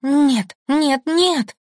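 high, loud panicked protest; terrified nightmare cries. Acted. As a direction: fight off an unseen attacker in terror. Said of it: "Я машу руками и ногами, сражаясь".

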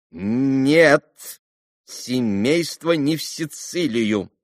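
slow, measured prescribing; a hint of a lecturing doctor; lightly voiced doctor. A narrator's reading. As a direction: dictate the plan patiently. Doctor's long advice.

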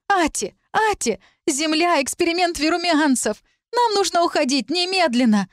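high, frantic alarm call; panicked shouting. Acted. Talit urging Ati to flee at once, panicked cries. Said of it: "Талит с криками".

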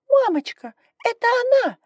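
put-on high, tearful little girl; a spoiled child about to cry, blaming the doll girl; trembling little voice. A narrator's reading. Daughter whining to her mother in a high trembling little voice. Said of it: "уже дрожащим голоском произнесла Илария".

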